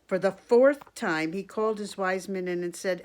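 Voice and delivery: projected, animated story reading; storybook read-aloud. A narrator's reading. Reader to children about the king and his wise men, storybook read-aloud. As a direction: read it out clearly for little listeners.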